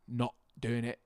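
mock Cockney with dropped T's; Cockney glottal stop. Shown as a demonstration. Showing friends the British difference, Cockney glottal stop. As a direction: swap the T's for glottal stops, Cockney style. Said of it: "they do the glottal stop".

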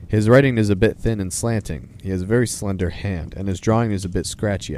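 lively storybook reading of a letter; measured, expressive read-aloud. Acted. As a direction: read it out as Father Christmas writing to children.

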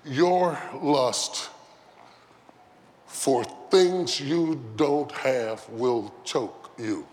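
normal talking voice

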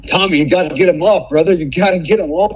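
urgent begging; desperate plea. Retold or imitated. Asking Tommy to pull the ticks off, desperate. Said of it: "I'm getting desperate now".

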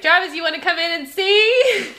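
put-on high, loud kid calling out; high child voice lifting into a question; Michael. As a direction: mimic a little boy's eager invitation.

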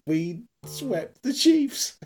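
high, drawn-out mock gloating; high slow teasing victory call; triumphant mock boast. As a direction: crow it slowly in a high voice. Imagined boast said to John.

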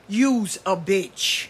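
slow, plainly stated retold insult; clear as day. Little girl to the boy who took her toy, slow and clear. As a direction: say it slowly and distinctly, as a verdict. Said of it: "as clear as day".

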